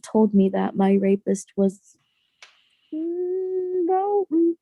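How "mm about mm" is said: voice breaking. Real, not acted. Recounting trauma, voice breaks.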